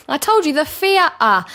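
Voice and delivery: loud, high, slow, "theatre" stretched as "fee-uh"; hammered-home "theatre" with an F for TH; retold younger self spelling it out, "theatre" as "fee-uh"; insistent East London th-fronting. Acted exchange with her mum.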